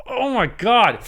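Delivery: high-pitched gush of adoration; giddy delight. Real, not acted. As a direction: squeal it, overwhelmed by how lovely it is. Overcome with delight at his rifle.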